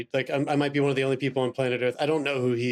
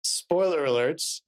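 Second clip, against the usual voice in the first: slow, stretched "Spoiler alerts" with a rise at the end; drawn-out announcement; much slower than usual. Shown as a demonstration. Host slowly announcing spoilers to listeners, drawn out. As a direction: drag it out like a warning sign. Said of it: "let's say".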